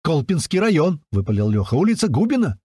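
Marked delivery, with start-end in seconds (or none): 0.0-1.0 higher, eager reply; joyful shout. A narrator's reading. Lyokha answers his countryman, shouting for joy. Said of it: "Лёха от радости заорал в ответ". 1.7-2.6 high-pitched gleeful answer; joyful shout. A narrator's reading. Lyokha names his street to Strike, joyful shout. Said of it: "Лёха от радости заорал в ответ".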